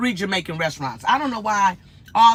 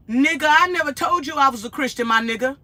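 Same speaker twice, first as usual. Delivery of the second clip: New York attitude; 5 semitones higher than usual. Retold or imitated. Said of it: "like a New Yorker".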